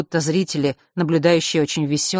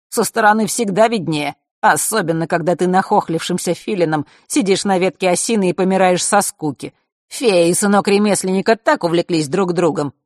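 smug and louder; smug gloating; 3 semitones higher, 5 dB louder than usual. Acted. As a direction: boast like a sly spy. Mark gloating.

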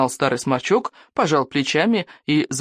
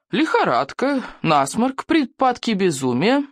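higher, drawn-out grim list; gloomy listing; 7 semitones higher, slower than usual. A narrator's reading. Old healer lists the symptoms, gloomily. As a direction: count off the symptoms darkly. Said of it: "мрачно перечислил старый сморчок".

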